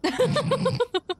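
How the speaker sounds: squealing high laugh. Real, not acted.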